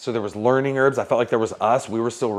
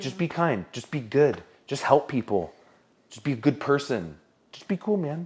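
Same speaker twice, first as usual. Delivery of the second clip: much quieter put-on laid-back, easygoing voice; 3 semitones higher, 3 dB quieter than usual. Recalling advice he got, the speaker imitates John, super laid-back. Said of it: "John in his like super laid back way".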